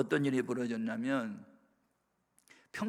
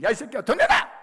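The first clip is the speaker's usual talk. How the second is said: high, loud mock shout; explosive imitation yell, rising to the end; retold furious demand; 10 semitones higher, 12 dB louder than usual. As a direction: act out an enraged mother demanding money. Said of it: "책상을 치면서".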